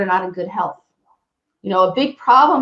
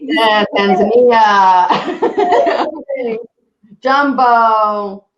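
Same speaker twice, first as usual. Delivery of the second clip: laughing; 4 dB louder, much slower than usual. Real, not acted. Laughs showing her mementos.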